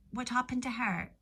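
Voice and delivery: ordinary talk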